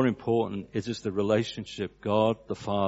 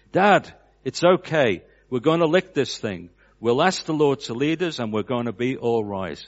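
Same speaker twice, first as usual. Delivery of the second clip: a son comforting his crying dad, earnest and raised; earnest pleading reassurance; 4 semitones higher, 6 dB louder than usual. Retold or imitated. A son reassures his weeping father, loud and earnest.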